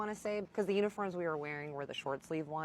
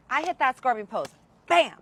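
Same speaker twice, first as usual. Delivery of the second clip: excited; 7 semitones higher, 10 dB louder than usual. Retold or imitated. Climax of the story.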